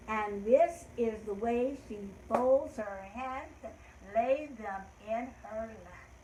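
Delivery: slow, measured nursery-rhyme delivery; slow singsong poem in her own voice; children's rhyme recital. Shown as a demonstration. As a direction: recite it slowly for little children to follow.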